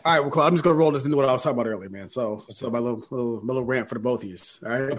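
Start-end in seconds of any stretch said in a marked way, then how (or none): 3.9-4.4 a touch of forties New York street talk; 1940s New Yorker. Real, not acted. Host ranting at both co-hosts, slips into 1940s New Yorker. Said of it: "became a nineteen forties New Yorker".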